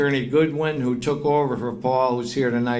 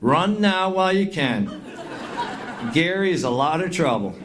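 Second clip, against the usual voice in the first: put-on Southern accent; 3 semitones higher than usual. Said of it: "with that southern accent, she said".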